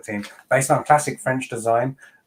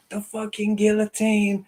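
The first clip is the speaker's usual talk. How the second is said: retold chat scream; 11 semitones higher than usual. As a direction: shriek it in mock outrage without full volume. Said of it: "I was screaming in the chat".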